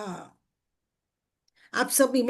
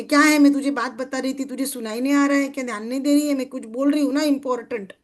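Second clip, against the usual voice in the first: a mildly raised, scolding voice, a bit quicker; mock scolding; faster than usual. Scolding an inattentive best friend, mildly raised voice. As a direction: tell off a friend who isn't listening. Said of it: "थोड़ा सा डांट के, आवाज बढ़ा के बताऊंगी".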